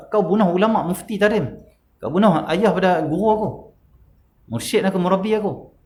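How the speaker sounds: mock outrage in a sermon retelling; angry retort. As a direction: voice the anger of a wronged student. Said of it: "Nak marah".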